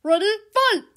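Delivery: booming fighting game announcer. Pretend. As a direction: call the fight like an arcade game.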